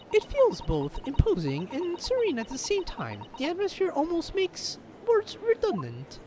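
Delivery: high, light character voice; earnest assistant. Acted. Assistant pleading for a man alone in court, high earnest voice. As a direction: plead for him, pitched well up.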